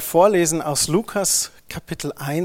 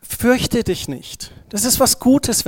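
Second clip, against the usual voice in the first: slow, high, gentle angel voice; calm a frightened girl; reassuring angel; 6 semitones higher, slower than usual. Pretend. Preacher plays the angel soothing Maria, slow and high.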